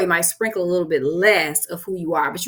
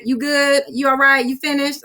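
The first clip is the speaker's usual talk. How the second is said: lightly voiced husband, pitched up, real smooth; husband checking in; 6 semitones higher than usual. Imitating her husband checking whether she's done fussing, smooth.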